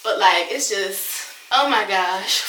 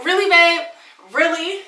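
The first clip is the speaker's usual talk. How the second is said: higher and louder, half laughing, half crying; wife greeting grinning husband off ambulance, exasperated; exasperated disbelief; 7 semitones higher, 7 dB louder than usual. Retold or imitated. Laughing exasperation. Husband thumbs-up after crash.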